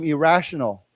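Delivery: "Irrational" said clearly for repeating; word modelling. Shown as a demonstration. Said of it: "Why don't we say it".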